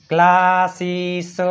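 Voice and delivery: ક્લાસીસ drawn out slowly with KL; correct K reading. Shown as a demonstration. Teacher sounds out ક્લાસીસ for students, slowly with KL. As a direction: stretch ક્લાસીસ, starting on a hard K. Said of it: "કોઈએ વાંચ્યું?".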